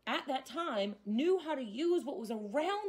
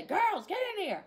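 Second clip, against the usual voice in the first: mom calling out; 9 semitones higher, 5 dB louder than usual. Retold or imitated. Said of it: "my mom would say".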